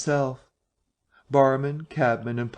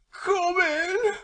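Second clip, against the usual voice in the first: high shrieking cry of terror; terrified bawl. A narrator's reading. Marvel begging the drinkers to let him in, terrified shriek. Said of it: "he bawled, his voice shrieking with terror".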